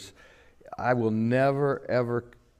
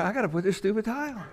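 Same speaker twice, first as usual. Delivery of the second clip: grumbling with a laugh; 9 semitones higher, much faster than usual. Retold or imitated. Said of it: "I'm going in there".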